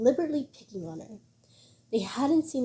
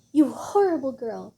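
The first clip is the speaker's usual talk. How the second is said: angry yelling; 3 dB louder than usual. Acted. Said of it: "while yelling".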